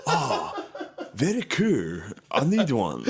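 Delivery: a hint of a giddy leader wanting a toy; mock Kim Jong-un. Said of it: "Kim Jong-un was like".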